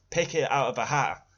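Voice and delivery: whispered mocking aside; sarcastic whisper. Real, not acted. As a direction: hiss it out like a sneer.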